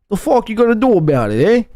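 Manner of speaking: put-on a light New York tough-guy accent, fast; mock New York wiseguy, a bit quick; New Yorker impression. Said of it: "why does he talk like a New Yorker?".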